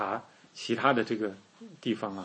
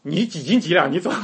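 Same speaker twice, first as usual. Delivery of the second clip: mocking with a laugh; 4 semitones higher, 5 dB louder than usual. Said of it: "我一定会说".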